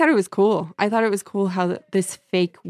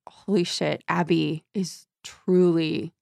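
hushed, horrified realization; horrified whisper. Retold or imitated. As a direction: mutter it in guilty shock. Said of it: "she's like".

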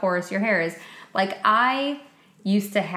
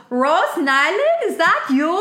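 loud, higher shout across a distance; calling back; 9 semitones higher, 6 dB louder than usual. Retold or imitated. Ingrid calling back to Rose from afar, loud and higher. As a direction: call back to someone you can't see. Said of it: "Like, calling back".

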